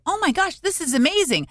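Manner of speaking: high-pitched gushing, lightly re-enacted; retold amazement. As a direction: gush as if freshly wowed. Retells being wowed by pretty video.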